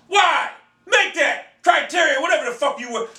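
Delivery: high, insistent fan outburst; punchy high-pitched demand; impassioned demand. Real, not acted. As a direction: call the developer out, pitch jumping up. Demanding a sequel from game developer.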